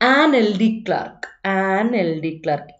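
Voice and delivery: slow model "an എൽ D clerk", vowel-first എൽ; vowel sound demonstration. Shown as a demonstration. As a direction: say "an എൽ" slowly so the e sound is heard. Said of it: "എ ആണ് sound".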